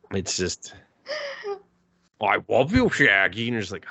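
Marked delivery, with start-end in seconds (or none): 2.2-3.5 lightly imitated talking cartoon dog; mock a bad cartoon hound impersonation; goofy dog-voice parody; Scooby-Doo. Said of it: "it's like Scooby-Doo".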